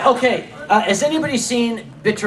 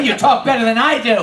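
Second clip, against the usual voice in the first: normal talking voice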